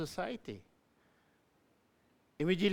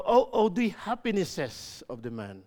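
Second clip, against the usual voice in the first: lifted, louder exclamation; intensified reading; 3 semitones higher, 5 dB louder than usual. Shown as a demonstration. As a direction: read "happinesses" as abundant joy. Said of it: "that's how it should be presented".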